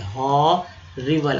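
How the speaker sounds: हॉरिबल drawn out very slowly; slow demo. Shown as a demonstration. Teacher modelling हॉरिबल slowly for the class. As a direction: stretch हॉरिबल carefully. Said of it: "आई वी एल ई को ईवल".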